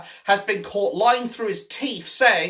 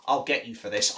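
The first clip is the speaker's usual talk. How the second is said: sputtering foiled villain; 7 semitones lower, 5 dB quieter, faster than usual. Acted. Ripping up Green Party leaflet.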